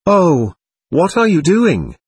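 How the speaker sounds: high, drawn-out exclamation; startled cry. A narrator's reading. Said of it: "cried Lies".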